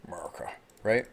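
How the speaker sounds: "America" slurred to "Murica"; mock American accent. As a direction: parody American pronunciation of America. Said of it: "how the world perceives that we sound".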